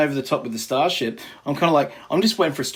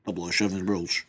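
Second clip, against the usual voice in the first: a light, lower, slowed take on a Scottish film star; Sean Connery impression; 5 semitones lower than usual. Host voicing a fan's take on Star Wars, light Connery impression. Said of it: "Sean says".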